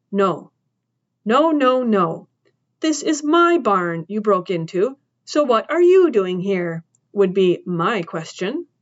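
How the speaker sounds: lightly voiced stern farm woman, turning the question back; a hint of a tough old woman cornering the boy; mildly mocking challenge. Woman character confronting boy.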